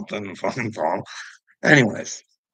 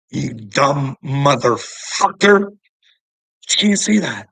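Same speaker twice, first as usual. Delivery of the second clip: slow, much higher, much louder yell; mock outraged yell; 4 semitones higher, 9 dB louder, much slower than usual. Man retelling how he lashed out at a useless cop, slow and much louder. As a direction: blow up at him. Retold clash with the police.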